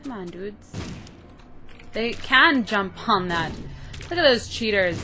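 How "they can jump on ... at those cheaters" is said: indignant. Real, not acted. Indignant at enemies.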